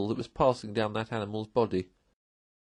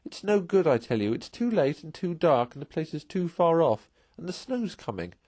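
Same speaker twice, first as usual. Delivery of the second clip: pleading; 7 semitones higher than usual. A narrator's reading. Mole pleading, distressed.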